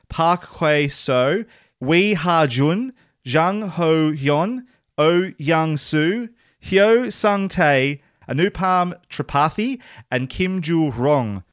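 slow, deliberate reading of Park Hae-seo and Kim Joo-rong; slow careful Korean names. Real, not acted. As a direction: sound out each Korean name slowly and carefully. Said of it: "try to pronounce a lot of Korean names".

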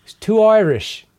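high, slow verdict from afar; slow, high-pitched speakerphone put-down. Retold or imitated. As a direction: imitate a remote client, drawn out and high. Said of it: "a voice out the speakerphone went".

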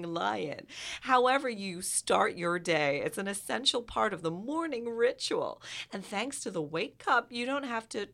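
put-on reading the ad in a light American accent; a hint of an American ad voice. Reading the Coffee Mate product description, American accent. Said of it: "can I do it in an American accent".

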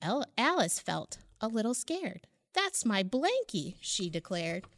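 put-on lilting read-aloud for children; rhyming picture book read warmly aloud; storybook narration. A narrator's reading. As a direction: tell it like a bedtime story to little ones.

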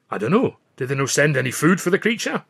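light Scots lilt, puzzled; a mild Scottish brogue; Scottish accent. A narrator's reading. Billy asks about the food, light Scottish accent.

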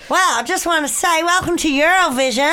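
tentative go at Australian; attempted Australian accent. Cohost tests Eurovision welcome, attempted Australian accent. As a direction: try out an Australian presenter's accent. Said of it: "Is that good?".

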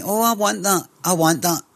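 a touch of greedy excitement; eager buyer. Acted. Acting out an eager game buyer.

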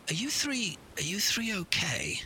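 hushed, concerned stranger's voice; hooded stranger. Acted. Hooded figure checks on them.

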